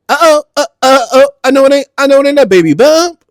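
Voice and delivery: very high, loud hammed-up astonishment; loud, high-pitched mock shock; shocked disbelief. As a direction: squeal it like scandalous news just broke. Acting out reaction to pregnancy news.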